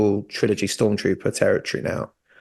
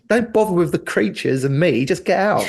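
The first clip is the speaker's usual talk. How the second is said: lightly voiced gruff clone soldier; a hint of a curt soldier; Crosshair impression; 7 semitones higher than usual. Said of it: "fantastic impression".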